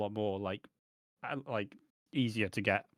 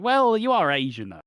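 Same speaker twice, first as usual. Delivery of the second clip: sceptical challenge; 6 semitones higher, 6 dB louder than usual. Retold or imitated. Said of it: "Lofty's like".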